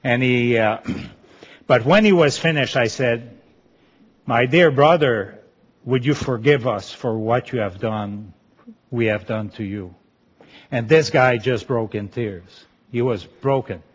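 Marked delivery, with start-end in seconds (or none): 4.3-10.0 tender plea. Retold or imitated. Retold plea to brother for forgiveness.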